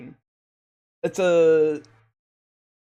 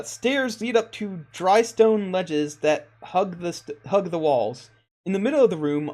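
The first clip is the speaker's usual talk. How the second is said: measured, lilting read-aloud description; game master's scene reading. Acted. Game master reading the altar room to players, scene-setting narration.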